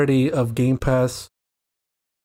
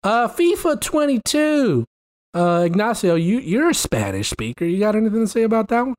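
put-on southern accent; 6 semitones higher than usual. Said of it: "I'm talking in a southern accent".

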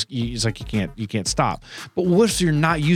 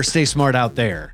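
slow announcer sign-off; slower than usual. Shown as a demonstration. Showing his co-host the better sign-off, slow and announcer-like. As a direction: savor each word like a radio host. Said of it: "See, it's better".

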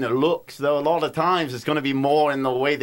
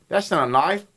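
Australian vowels stretched through a smile; attempted Australian, at normal pitch; smiling Australian accent. Shown as a demonstration. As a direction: smile and widen the lips into Australian. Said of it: "if you make a smile".

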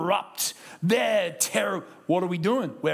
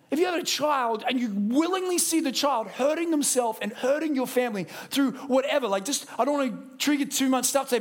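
full preaching; 6 semitones higher than usual. Acted.

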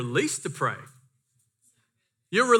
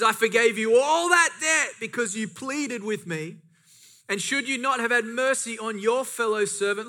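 mildly indignant, higher-pitched rebuke; angry master; 4 semitones higher than usual. Retold or imitated. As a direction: act out a master reproaching his servant. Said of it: "And in his anger".

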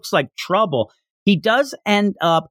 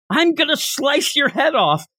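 retold distant yell; 10 semitones higher than usual. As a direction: imitate someone calling threats into the distance. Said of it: "then yells off into the distance".

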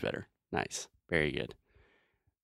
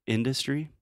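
IN-dustry, stress on the IN of industry; first-syllable stress; 5 semitones higher than usual. Shown as a demonstration. Teacher models correct word, industry stressed on IN. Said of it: "the stress is first on the first syllable".

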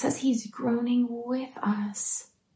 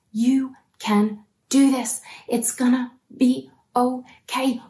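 gentle reassurance; 2 semitones higher, slower than usual. Retold or imitated. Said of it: "He looks us in the eye and says".

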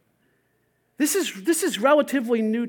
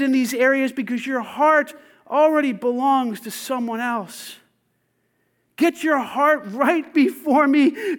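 God's voice; 3 semitones higher, 3 dB louder, slower than usual. Retold or imitated. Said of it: "hear from God is".

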